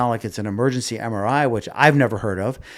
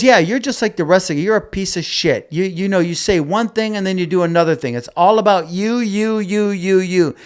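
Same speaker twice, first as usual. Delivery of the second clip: louder, higher, an accusing rant; angry accusation; 6 semitones higher, 3 dB louder than usual. Retold or imitated. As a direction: tear into him, fed up and accusing. Her angry text acted out.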